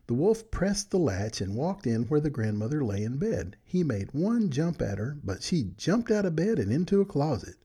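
put-on gentle read-aloud storytelling for children; bedtime story narration. A narrator's reading. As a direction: read it like a good night story to friends.

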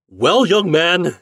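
high, loud, drawn-out reproach; angry cry. A narrator's reading. Storekeeper greeting the boy, angry cry. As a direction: confront the boy slowly and loudly. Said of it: "he cried".

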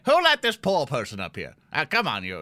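loud, annoyed complaint; irritated shooing. Acted. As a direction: object loudly to the intruder. Acted shooing of a crawling beggar.

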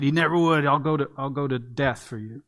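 a hint of boastful Peter promising loyalty; self-righteous vow. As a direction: swear it like you'd never fail, a bit puffed up. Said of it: "so, so self-righteously and emphatically said".

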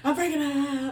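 high, loud mock-panicked wail; hammed-up meltdown, starting high and loud; freaking out. Telling dad about the last paycheck, mock wailing. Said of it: "And I freaked out".

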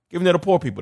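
mock their scornful complaint; mock indignation. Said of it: "That's the attitude".

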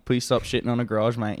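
Aussie twang with mate at the end; Australian accent. Shown as a demonstration. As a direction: read it like a laid-back Australian. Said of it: "in an Australian accent".

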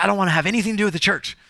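lightly acted irritated brush-off; angry atheist. Atheist woman rebuffs the pastor, mildly angry. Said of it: "she was an angry atheist".

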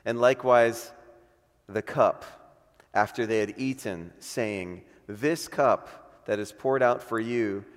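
measured, solemn Bible reading with long pauses; scripture reading. Acted. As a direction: pastor reading the Lord's Supper text to the church, solemn. Reads Luke 22 aloud.

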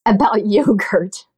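laughing. Real, not acted. Amused echo of question.

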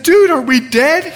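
high, alarmed question; startled question. Retold or imitated. Waking up in the dark, asking his friend, startled. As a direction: ask it stunned and a little panicked. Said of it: "and I said".

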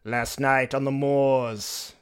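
slow, weary undead aristocrat; vampire voice. Acted. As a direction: speak like a bored ancient count. Vampire reminiscing.

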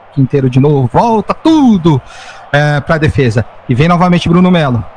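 rising, quickening football commentary; live play-by-play. Acted. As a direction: build up with each attack.

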